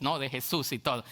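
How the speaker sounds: ordinary talk, nothing marked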